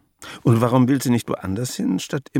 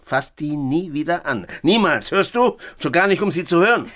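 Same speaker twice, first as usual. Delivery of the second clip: stern anger; 4 semitones higher than usual. Acted. Grandfather forbids touching the records.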